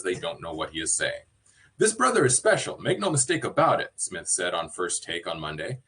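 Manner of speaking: lightly put-on podcaster read of a news item; measured podcast read, livelier on the quotes. Shown as a demonstration. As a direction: read it aloud like a podcast host. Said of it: "read this in my podcaster voice".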